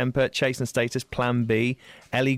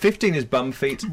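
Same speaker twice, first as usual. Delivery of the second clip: surprised; 5 semitones higher, 3 dB louder than usual. Real, not acted. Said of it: "I have no idea what's going on".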